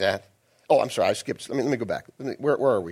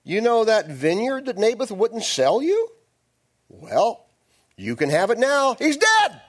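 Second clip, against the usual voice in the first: gloating Jezebel; 6 semitones higher than usual. Acted. Queen telling her husband the owner is dead, gloating and higher. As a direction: savour the news wickedly. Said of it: "she said to Ahab".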